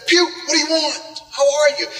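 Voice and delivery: lightly voiced dad.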